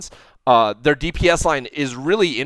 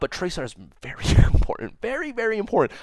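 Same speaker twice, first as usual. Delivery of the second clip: hushed whisper like sharing a secret, pitched higher; 7 semitones higher than usual. A commentator stressing how important tracer is to a team: whispering. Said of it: "I don't know why I'm whispering".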